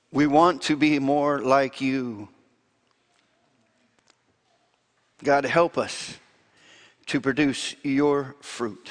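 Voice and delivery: earnest public prayer in measured phrases; closing prayer. Real, not acted. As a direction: pray aloud for the congregation, pausing between phrases.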